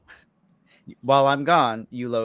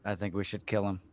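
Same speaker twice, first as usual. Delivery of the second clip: hushed, conspiratorial aside; pretend whisper; 3 semitones lower, 8 dB quieter than usual. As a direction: quietly confide a plot to an ally. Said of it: "I'm gonna whisper to Darthos".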